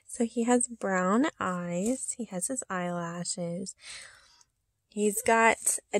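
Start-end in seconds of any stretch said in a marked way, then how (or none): 2.2-3.7 soft, slow whisper. Real, not acted. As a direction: breathe it gently. Whispered description.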